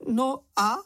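very high, squeaky little voice; high-pitched little character voice; Čenich, small excitable creature. A narrator's reading. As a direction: pipe it up high, pertly.

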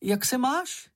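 high, gentle little creature voice; small high friendly question; high Sniff voice. Acted. Sniff to kitten.

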